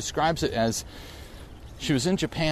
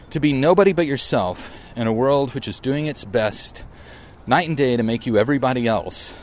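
louder, deliberate recital of the quote; reciting a poem; 4 dB louder than usual. Acted. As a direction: declaim it like a cherished poem, leaning on the key words. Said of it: "And this is it".

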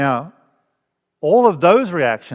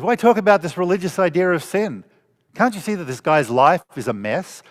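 exasperated questioning; 3 semitones higher than usual. Retold or imitated. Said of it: "my first reaction is".

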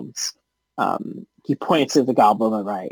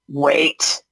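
slow, lightly voiced goblin boss; scheming goblin leader; slower than usual. Goblin leader stops the rescuers to bargain, slow deliberate voice. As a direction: hold them up with measured words.

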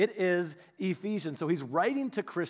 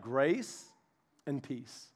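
much softer, lower and fading; gentle blessing; 5 semitones lower, 6 dB quieter, much slower than usual. Shown as a demonstration. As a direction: lay the words down tenderly. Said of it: "and he's like".

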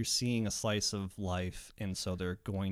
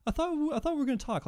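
high fast whine; mock complaint; faster than usual. Someone complaining to the podcaster, high and fast. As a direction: rush it like a wounded protest. Own argument reenacted.

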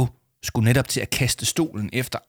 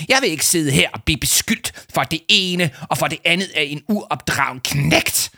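indignant official demanding an apology; furious shouting; 6 semitones higher than usual. A narrator's reading. Adviser rising from his chair, outraged shouting. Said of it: "råbte Leo Manchot".

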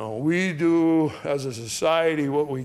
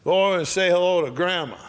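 bossy uncle's order, higher pitched; big mean uncle; 6 semitones higher, 5 dB louder than usual. Retold or imitated. Uncle ordering family to greet dying Grandma, bossy. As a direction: order a shy relative over, raised pitch. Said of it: "being big, mean Uncle Eric".

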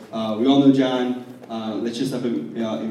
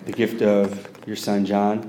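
earnest public prayer in measured phrases; projected, heartfelt intercession; 2 semitones lower, 5 dB louder than usual. Real, not acted. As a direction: pray aloud over the speaker. Leads prayer for speaker.

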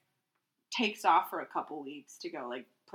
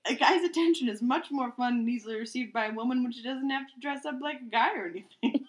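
reading while laughing; 4 semitones higher, 4 dB louder than usual. Acted. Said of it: "read it as is".

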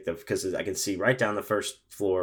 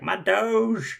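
put-on drunk woman; 13 semitones higher than usual. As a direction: play the tipsy stranger barging in. Drunk woman voiced in story.

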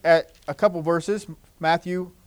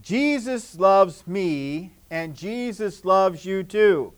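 slow and clear; much slower than usual. Shown as a demonstration. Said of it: "look at somebody else and say".

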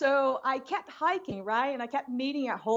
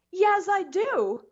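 confused protest; 6 semitones higher than usual. Retold or imitated. Arguing with friend about sign.

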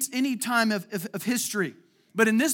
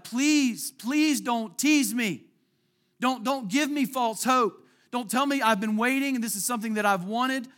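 mild pleading, higher and slow; 3 semitones higher than usual. Retold or imitated. Preacher voicing the woman pleading with the prophet. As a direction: beg him not to tease her hopes. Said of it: "She's like".

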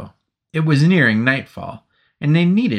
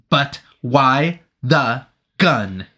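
staccato; 2 semitones higher, much slower than usual. Acted. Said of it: "Anthony asked in a staccato".

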